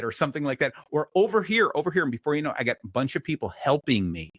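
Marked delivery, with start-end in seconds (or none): 1.1-2.0 high, loud call across the store. Retold or imitated. Store worker calling a lost customer over, high and loud. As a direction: wave the customer over from down the aisle.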